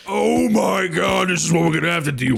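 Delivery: cracking up as it comes out; laughing exclamation. Real, not acted. Table bursts out laughing.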